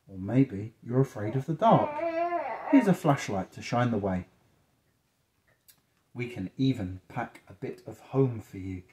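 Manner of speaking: lilting picture-book narration, softening at the end; reading to children. A narrator's reading. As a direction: read gently phrase by phrase to a child.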